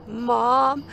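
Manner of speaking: mock tearful stammer; retold sobbing. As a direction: imitate a tearful daughter stammering to mom. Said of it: "she's sobbing and crying".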